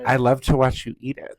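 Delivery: creepy whispered compliment; whispered mock admirer. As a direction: breathe it like a leering stranger. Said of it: "They're always like".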